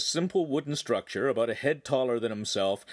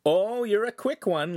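dry sarcastic jab, higher and louder; droll retort; 10 semitones higher, 5 dB louder than usual. A narrator's reading. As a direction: tease him mockingly. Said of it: "retorted drolly".

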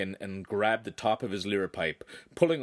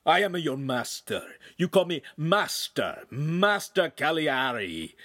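loud, high indignant demand; big man insisting on his title; bellowing master; 9 semitones higher, 4 dB louder than usual. A narrator's reading. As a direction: pull rank on an upstart at raised volume. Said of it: "the big man bellowed".

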